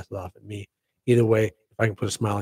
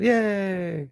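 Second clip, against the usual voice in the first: higher little showing-off yay; mock excited yay; 9 semitones higher than usual. Shown as a demonstration. Showing viewers the balloon-trigger cheer, mock excited. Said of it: "if you get all excited and go".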